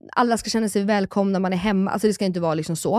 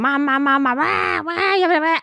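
high-pitched mock wailing children; escalating toddler wail, played for laughs; clamouring kids; 10 semitones higher than usual. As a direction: imitate whining kids all clamouring for mum. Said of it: "det var kaos verkligen".

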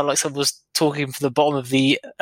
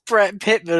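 imitating a shout; 4 semitones higher than usual. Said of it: "I just love he shouts".

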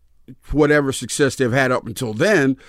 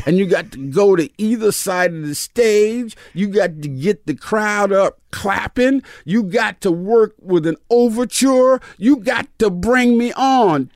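Pickett coaching; 5 semitones higher, slower than usual. Retold or imitated. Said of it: "He said".

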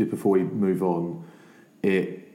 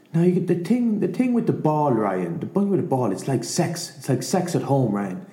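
high, hammed-up Irish accent of an old coach; Declan Kidney's Irish accent; 10 semitones higher than usual. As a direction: lay on a thick mock Irish accent, pitched up. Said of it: "The accent's kind of important".

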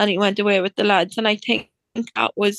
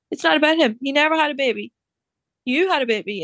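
higher-pitched, insistent correction; emphatic retold GP; 5 semitones higher, faster than usual. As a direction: lightly voice an emphatic doctor setting her straight. GP firmly reassures her, retold.

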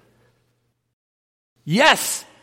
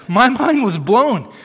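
excited; 4 semitones higher, 4 dB louder than usual. Real, not acted. Excited emphasis.

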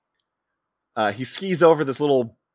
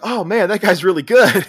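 mock admiration; 8 semitones higher, 6 dB louder than usual. Onlookers admiring the skier, voiced.

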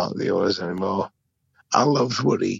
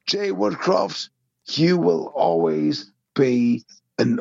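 passionate; 2 semitones higher than usual. Real, not acted. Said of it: "a song by an artist".

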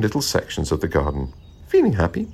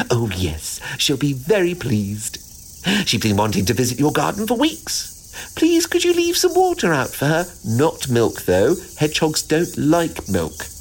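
squirrel voice; 7 semitones higher than usual. Acted.

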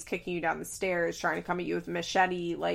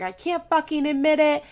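high, loud mock yelling; retold screaming; 8 semitones higher, 6 dB louder than usual. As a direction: act out an indignant screamed denial. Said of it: "They're screaming".

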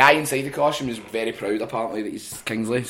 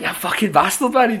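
retold anger; 8 semitones higher, 6 dB louder than usual. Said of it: "I'm really angry right now".

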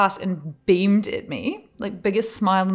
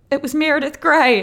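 higher and louder; breathless celebrity gossip; imitating excited woman; 8 semitones higher, 6 dB louder than usual. Woman tells friend on phone.

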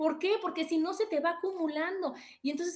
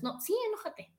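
gentle permission; 7 semitones higher, 4 dB quieter than usual. Shown as a demonstration. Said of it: "Nunca te enojes".

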